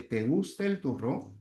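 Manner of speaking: "turrón" lifted at the end, a yes-no question; rising question tone. Shown as a demonstration. Teacher demonstrating a yes-no question, "turrón" rising. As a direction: let the voice climb on "turrón". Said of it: "la inflexión de voz va a subir".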